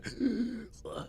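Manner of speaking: high, soft zombie gasp; zombie noise. Shown as a demonstration. Streamer showing his mocap zombie act, zombie noise. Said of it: "doing my".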